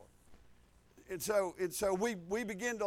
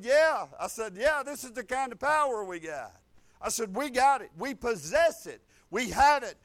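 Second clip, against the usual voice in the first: retold emphatic affirmation; 5 dB louder than usual. Retold emphatic reply to the man.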